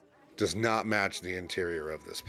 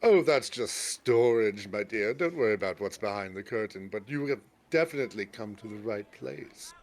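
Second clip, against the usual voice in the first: shopkeeper. Acted. DM voices the shopkeeper.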